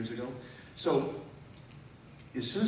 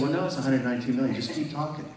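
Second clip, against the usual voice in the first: quick, louder, laughing through it; laughing taunt; 5 dB louder than usual. Real, not acted. Preacher retells taunting the devil, laughing. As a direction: toss it back with a laugh.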